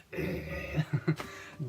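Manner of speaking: acted choking noise; imitated choking. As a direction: mimic choking for air. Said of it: "I was, like, choking".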